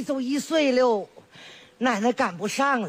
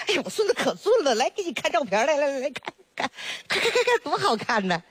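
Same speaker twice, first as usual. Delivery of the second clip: higher, fast, bragging about the grandson; proud excited grandma; 4 semitones higher, faster than usual. Acted. Grandma to neighbor, showing off grandson's photo, excited bragging. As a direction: gush over the photo like a doting granny.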